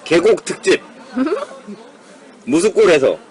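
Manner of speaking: giggling announcement; laughing. Real, not acted. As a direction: laugh through the title.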